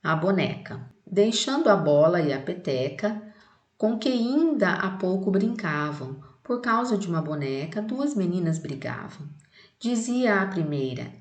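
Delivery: put-on reading a children's poem aloud to the class. Shown as a demonstration. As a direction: recite the poem clearly for students. (leitura de poema para a turma)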